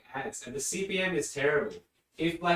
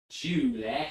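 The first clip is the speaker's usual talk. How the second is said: lightly mimicked Northern English accent; Northern English neighbor. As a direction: imitate a neighbor's North of England accent on Julie. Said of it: "neighbor who was from the north of England".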